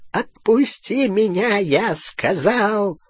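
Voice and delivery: high, slow, strained rasp; hoarse croak. A narrator's reading. Fenrir answers Bellatrix at sword point, hoarsely. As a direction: croak it out with effort. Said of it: "прохрипел Фенрир".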